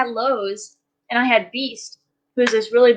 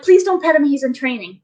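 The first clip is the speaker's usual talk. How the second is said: firm warning; 2 semitones higher than usual. Retold or imitated. Warning stranger off service dog.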